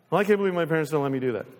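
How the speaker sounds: put-on rapid grumble of a resentful kid; whiny kid. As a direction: play the resentful child complaining. Whiny child voiced.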